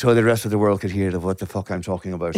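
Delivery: put-on Irish accent, demonstrated on request; lilting Irish accent demo. Shown as a demonstration. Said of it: "Could you actually do that".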